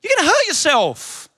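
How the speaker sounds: high, urgent dad warning; alarmed dad. Retold or imitated. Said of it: "I was like".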